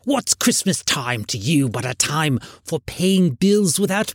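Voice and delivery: put-on indignant old miser's tirade; scornful, aggrieved Scrooge voice. A narrator's reading. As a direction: rant against the season as a crotchety old man. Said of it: "said Scrooge indignantly".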